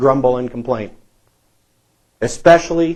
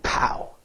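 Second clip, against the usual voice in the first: mock attack sound; 10 dB quieter than usual. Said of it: "sneak up behind you".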